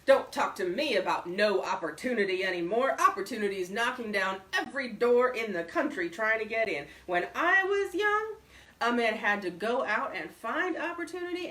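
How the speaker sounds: a hint of a loud, boastful old man; gruff old braggart. A narrator's reading. Bullard ranting about opportunity.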